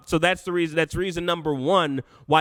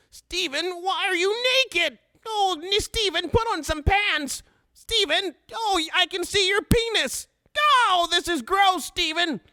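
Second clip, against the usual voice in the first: very high, grossed-out whine; whiny cartoon voice; 12 semitones higher than usual. Host reads chat comment to naked Steven, high whiny wail. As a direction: wail in hammed-up disgust.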